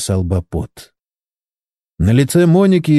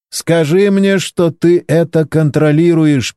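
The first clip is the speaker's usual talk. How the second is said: anxious plea; 6 semitones higher, slower than usual. A narrator's reading. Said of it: "переживал Валерий".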